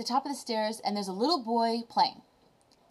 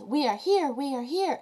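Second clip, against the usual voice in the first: high shout; 5 semitones higher than usual. Retold or imitated. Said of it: "then it's".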